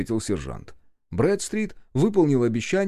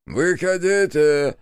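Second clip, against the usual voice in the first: slow, higher, louder order in another voice; barked command; 6 semitones higher, 5 dB louder, slower than usual. A narrator's reading. Senior officer orders the squad out, loud command. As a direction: order the men out of the carriage. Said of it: "скомандовал старший".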